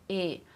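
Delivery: exaggerated closed E for diction drill; closed E vowel. Shown as a demonstration. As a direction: close the jaw slightly on E. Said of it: "No E, fecha mais um pouquinho".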